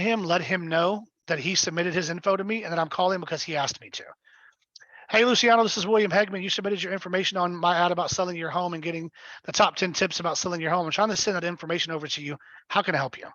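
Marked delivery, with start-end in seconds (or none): 5.1-13.3 a slightly fuller, upbeat call opener; longer version of the pitch. Shown as a demonstration. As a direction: give the whole friendly script. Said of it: "a longer version".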